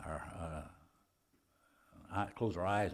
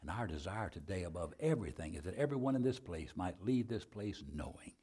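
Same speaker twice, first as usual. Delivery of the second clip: subdued, lowered prayer voice; public prayer; 3 semitones lower, 4 dB quieter than usual. Real, not acted. Preacher praying over those who raised hands, subdued prayer. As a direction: pray aloud for the congregation, softly.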